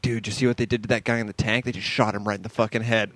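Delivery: hushed retold whisper, low and soft. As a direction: whisper it like a nervous friend. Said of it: "your friend will come up and whisper".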